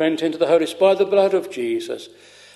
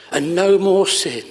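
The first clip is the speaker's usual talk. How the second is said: "no more sin" pressed out with weight; great emphasis; 3 dB louder than usual. Retold or imitated. Preacher retelling great aunt's hope, "no more sin" said emphatically. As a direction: give "no more sin" strong, deliberate emphasis. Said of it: "she said with great emphasis".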